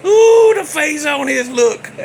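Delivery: high, slow, loud through laughter; real laughing. Real, not acted. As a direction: say it while cracking up. Laughing at son's reaction.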